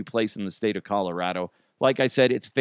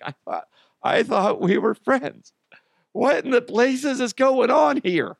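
high, hammed-up wounded friend voice, much higher; mock offended friend; 11 semitones higher than usual. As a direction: play the hurt buddy who got forgotten, over the top. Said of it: "You're like".

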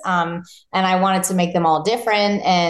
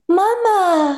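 imitating baby; 12 semitones higher than usual. Mother imitating her toddler saying mama, high baby voice. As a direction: coo it like a toddler calling mom. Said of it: "he's been looking at me going".

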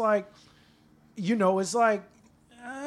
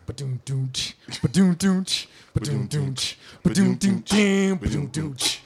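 beatboxed drum intro, boom and tch; lightly voiced beatbox in a Shaq impression; mouth beatbox intro; 3 semitones lower, 3 dB quieter, slower than usual. Shown as a demonstration. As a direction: lay down a slow beatbox loop before the rap. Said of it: "do it, but in Shaq's voice".

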